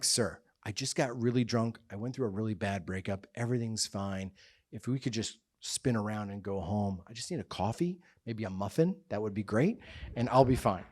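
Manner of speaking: low, soft retold plea; hushed, meek bargaining; subdued pleading. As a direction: quietly reason your way out of trouble. Pleading with officer to go home.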